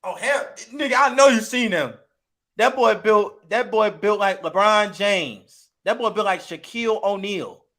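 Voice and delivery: loud, amazed hype about a big man; hyped street voice. Retold or imitated. Israelite hyping up Goliath's size to a friend. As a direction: brag him up like a pro athlete. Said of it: "They're like".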